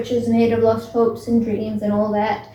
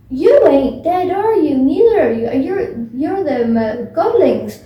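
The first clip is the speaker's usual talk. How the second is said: louder, higher, slow ferryman voice; made-up Charon voice; 3 semitones higher, 5 dB louder than usual. Retold or imitated. Charon, the ferryman, challenging the living kids, loud and slow. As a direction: boom it out like a suspicious ferryman. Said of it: "He doesn't say it like that".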